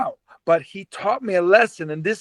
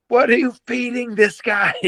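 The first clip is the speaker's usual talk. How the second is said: higher-pitched mock yell, little added volume; retold yell; 5 semitones higher than usual. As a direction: imitate yelling in disbelief without really shouting. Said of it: "and I yell".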